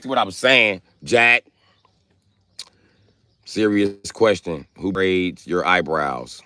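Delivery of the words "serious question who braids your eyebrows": mock serious. Real, not acted. Slow mock-serious question.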